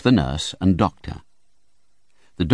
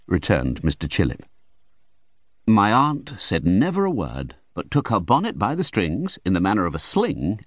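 plain reading voice

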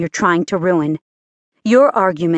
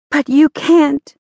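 raised; 7 semitones higher, 4 dB louder, slower than usual. Acted. Maria pleads against Jeff.

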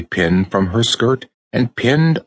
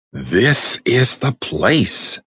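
cry of discovery; 4 semitones higher, much slower than usual. A narrator's reading. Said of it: "cried Raggedy Ann".

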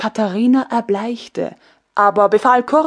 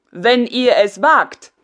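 defiant call; 4 dB louder, slower than usual. Acted. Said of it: "rief der Sprecher der Soldaten".

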